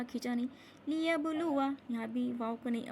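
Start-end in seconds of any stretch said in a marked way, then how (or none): 0.9-1.7 "लियबलुआ" chanted with short final wa; silent alif. Shown as a demonstration. Teacher showing students, "लियबलुआ" with short wa. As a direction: recite "लियबलुआ", ending unstretched. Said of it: "वाव के बाद अलिफ को नहीं पढ़ा".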